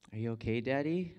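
put-on high, rising child's question; concerned little daughter. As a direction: imitate a little girl checking on her dad. Voicing his little daughter's concern.

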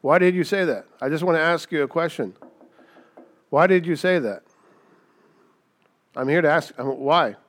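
a probing divine interrogator; God questioning. Pretend. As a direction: play the Lord gently cross-examining. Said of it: "If the Lord stopped by every day and was like".

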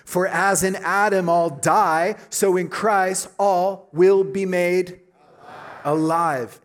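preacher rereading the verse with fire; energized reread. Shown as a demonstration. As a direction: boom it out with conviction. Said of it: "We're gonna do it again".

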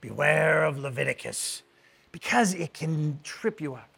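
lightly imitating a Scottish professor's brogue; faint Scottish brogue warning students. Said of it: "in his, his Scottish brogue".

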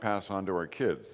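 normal talking voice

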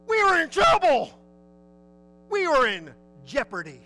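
shouted high and loud; mock panicked shout. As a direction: cry it out like men in danger. Disciples cry out in storm.

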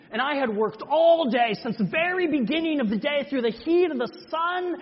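worked-up protest of unfairness; heated indignant outburst. Acted. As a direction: pour out years of resentment at God. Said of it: "and I got so mad".

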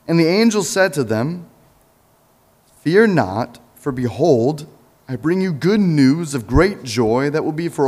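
measured, lifted reading voice; scripture reading. Acted. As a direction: read the Gospel to the congregation. Reads scripture passage aloud.

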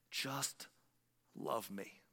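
soft and low, God speaking to the heart; hushed inner voice. Retold or imitated. Preacher voicing God softly in his soul, hushed. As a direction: let it land quietly, almost under the breath.

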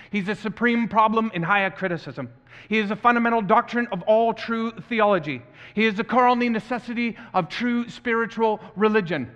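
impassioned Southern preacher, emphatic rhythmic declarations; deep Southern accent. Acted. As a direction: proclaim each title with rising fervor in a deep Southern accent. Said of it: "using a deep South Southern accent".

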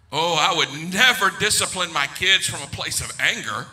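loud, declamatory pledge; mock self-righteous. Preacher as his childless self, mock self-righteous. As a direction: proclaim it like a sworn principle, hammed-up.

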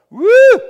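sudden loud cheering whoop. Acted. Preacher whoops at the news to his congregation, loud joyful whoop. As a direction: whoop out in celebration. Celebrating Jesus showing up.

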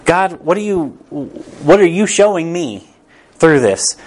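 earnest prayer. Retold or imitated. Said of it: "That's a better question".

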